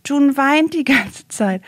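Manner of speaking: imitated little brother. Little brother on the phone to mother, imitated child's report. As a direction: stretch it out like a small boy reporting. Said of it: "wie er gesagt hat".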